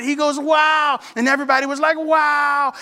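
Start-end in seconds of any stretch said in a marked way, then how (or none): 0.4-1.0 retold amazed wow, higher pitch; excited. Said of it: "He was so excited". 2.0-2.7 retold group amazement, higher pitch; excited. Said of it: "Everybody was excited".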